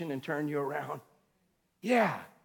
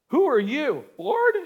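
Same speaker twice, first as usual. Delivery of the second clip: startled question; 4 semitones higher than usual. Retold or imitated. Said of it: "and he said".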